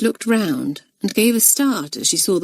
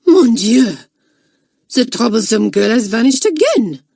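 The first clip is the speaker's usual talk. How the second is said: shriek; 5 semitones higher, 6 dB louder than usual. Acted. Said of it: "gave a shriek".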